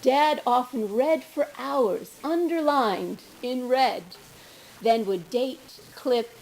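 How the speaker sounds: deliberate, emphatic verse with spaced phrases; poetry reading. Acted. Daughter reading a poem about her father, measured recital. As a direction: recite it slowly, pausing between images.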